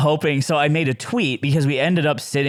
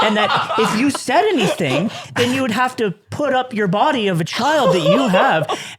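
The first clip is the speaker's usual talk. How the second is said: high-pitched mock public taunt; retold loud taunt; 9 semitones higher than usual. Passenger taunting a man before onlookers on the bridge, retold loud taunt. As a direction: retell it pitched up, laughter creeping in. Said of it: "I'm saying this so loud".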